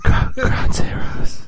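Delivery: loud, drawn-out raspy whisper; creepy whispered take on posh; failed posh voice. Pretend. Co-host trying the game title, failed posh voice. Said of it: "doing it in your posh voice".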